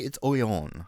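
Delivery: Orléans with a French nasal ending; mock French Orléans. Shown as a demonstration. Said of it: "It's actually".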